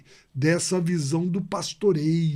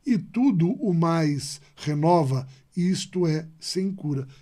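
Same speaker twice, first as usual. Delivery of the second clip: poem recital. Acted. Teacher reciting Sá de Miranda to the class, measured. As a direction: recite it with weight, line by line.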